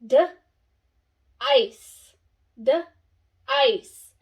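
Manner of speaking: d and ice apart, twice; sounding out. Shown as a demonstration. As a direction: split onset and rime. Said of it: "Let's see, it says".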